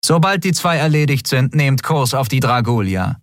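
cool high voice of a bored cult leader; bored commander. Acted. Elin orders her fleet to board the Dragulia, cool and bored. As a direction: issue orders as if it's all routine.

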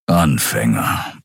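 low, slow grumble; a lion-man growling one word; growled. A narrator's reading. Keru grumbles scornfully to Nelen, low and slow. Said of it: "brummte Keru".

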